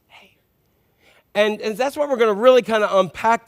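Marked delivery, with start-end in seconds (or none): 0.1-0.4 tiny hushed whisper; barely audible, a still small voice. Acted. Preacher imitating God's still small voice, whispered. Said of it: "a whisper, a still small voice".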